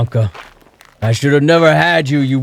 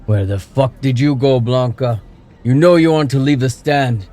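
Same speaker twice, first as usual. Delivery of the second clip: put-on furious drunk father, louder and higher; thundering; 6 semitones higher, 5 dB louder than usual. A narrator's reading. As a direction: rage at her drunkenly. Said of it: "he thundered".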